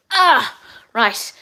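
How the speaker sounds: a pained breathy whisper as she gets up; strained whisper. Real, not acted. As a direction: whisper it through the ache of getting up. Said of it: "everything hurts".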